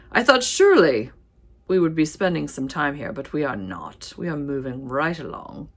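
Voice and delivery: badly faked British accent; hammed-up, amateur British accent. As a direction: slip into a mock British accent. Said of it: "why did I start speaking in a British accent".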